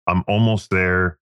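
slow, friendly call to a customer; slow phone call. Retold or imitated. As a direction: say it slowly over the phone. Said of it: "call back every customer".

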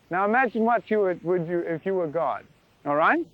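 usual speaking voice

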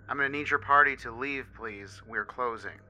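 stern waiter closing up. Retold or imitated. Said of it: "a little more sternly".

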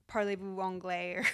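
"Parlez-vous anglais?" said with a strong American accent; self-mocked French. Shown as a demonstration. Podcaster admits to French speakers her awful pronunciation, apologetic. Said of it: "I know my pronunciation is awful".

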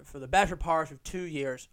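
badly attempted Irish accent; poor Irish accent. Shown as a demonstration. Podcaster showing how he tormented his Irish mate, poor Irish accent. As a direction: have a clumsy go at sounding Irish. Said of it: "Oh, that was fucking horrific".

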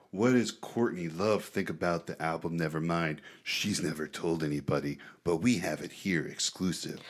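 news promo voice. Retold or imitated. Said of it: "I love how he defaulted to the voice".

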